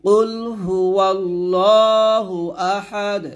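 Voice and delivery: slow chanted কুল হু ওয়াল্লাহু আহাদ with bounced দ; slow Quran teacher demonstration; model recitation. Shown as a demonstration. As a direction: recite slowly, bounce the final দ. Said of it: "আমার সাথে আবার বলেন".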